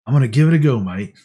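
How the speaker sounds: mock-Aussie quote, dropping off on "mate"; hammy attempt at an Australian accent; bad Australian accent. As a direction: put on a clumsy Australian accent. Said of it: "I may sound Australian on that one. ... my horrible accent".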